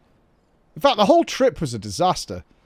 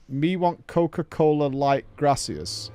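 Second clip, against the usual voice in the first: slow, half-hearted fake Spanish accent; slower than usual. Shown as a demonstration. Tourist ordering a cola abroad, fake Spanish accent. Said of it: "Do you use a fake Spanish accent when ordering".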